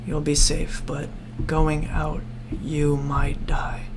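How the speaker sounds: ominous hush. Acted. Grim warning, slowing to whisper.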